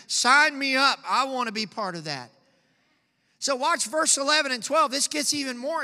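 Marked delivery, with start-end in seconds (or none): 0.1-2.3 eager sign-up. Pretend. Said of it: "How many of you would say".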